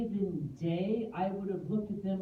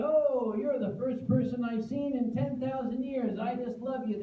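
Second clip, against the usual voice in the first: dog's voice; 6 semitones higher than usual. Retold or imitated. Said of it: "they're doing the".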